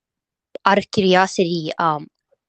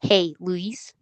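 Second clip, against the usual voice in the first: a softer, more natural hey Luis; softer greeting. Shown as a demonstration. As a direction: greet him gently, like you mean it. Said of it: "I like that better".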